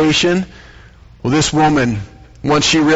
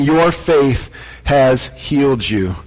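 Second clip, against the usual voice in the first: gentle slow blessing; slower than usual. Acted. Repeating Jesus to the woman, slow and gentle. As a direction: lay each word down gently.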